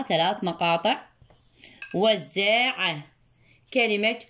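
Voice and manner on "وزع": slow emphatic model word. Shown as a demonstration. Teacher to pupil, a slow emphatic وزع. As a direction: draw out وزع with weight. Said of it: "teacher models word slowly".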